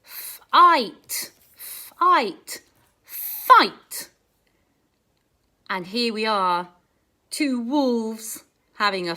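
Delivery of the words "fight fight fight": Fight. loud with a long I; stretched vowel. Shown as a demonstration. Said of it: "Can you say the sounds as I point?".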